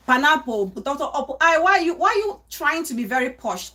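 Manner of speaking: mock scolding voice, pitch jumping up; mocking the village saying. Auntie quoting the village's mock scold. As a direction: tease like the villagers do. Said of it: "there's this saying which goes".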